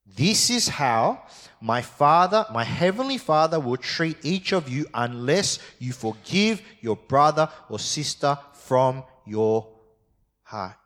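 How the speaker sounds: preacher reading scripture aloud. Acted. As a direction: read the Bible passage out to the congregation. Reads verse thirty-five.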